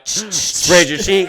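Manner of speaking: slow, loud, high words through laughter; laughing. Real, not acted. Joking with his friend about the valve, laughing. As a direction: crack up while saying it.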